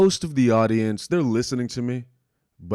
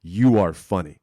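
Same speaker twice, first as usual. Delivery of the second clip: firm, louder "You are funny."; earnest stress on You; intense insistence; 2 semitones lower, 5 dB louder than usual. Retold or imitated. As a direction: drive it home to him. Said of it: "she made sure I understood".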